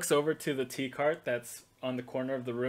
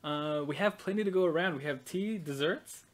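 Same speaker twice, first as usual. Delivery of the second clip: higher, eager hostess; the Baroness; 5 semitones higher than usual. Acted. Baroness offering tea to guests, higher and eager. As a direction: fuss over the guests sweetly. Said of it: "And she goes".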